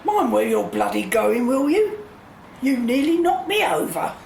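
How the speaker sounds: put-on cross old lady snapping at a passer-by; irritated scolding. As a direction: tell him off for bumping you. Bumped into in the street.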